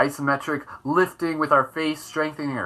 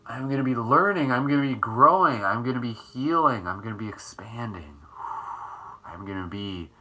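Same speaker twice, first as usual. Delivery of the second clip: measured, lower mantra delivery; affirmations; 4 semitones lower than usual. Shown as a demonstration. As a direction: intone each affirmation with deliberate emphasis. Speaks affirmations aloud as mantras.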